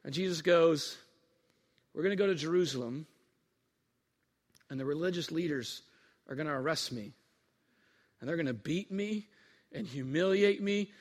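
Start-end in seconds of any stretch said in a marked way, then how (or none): 1.9-10.9 low, soft, with heavy pauses; hushed, solemn prediction; grave foretelling. Acted. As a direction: break hard news quietly, piece by piece. Jesus gravely foretells his arrest.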